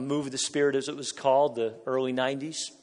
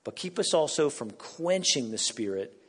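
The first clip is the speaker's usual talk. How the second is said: prayer. Acted. Prays word for word.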